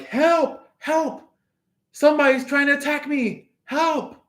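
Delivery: high, fast panicky calls for help; mock cry for help. You pretending to be attacked, mock high panic. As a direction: squeal for help like a cartoon victim.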